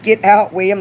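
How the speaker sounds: mock yelling get out; calling him out loudly; retold yell. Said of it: "I just said".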